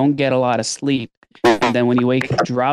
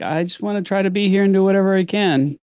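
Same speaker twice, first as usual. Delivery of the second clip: eager new dad; 7 semitones higher than usual. Retold or imitated. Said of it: "And it's like".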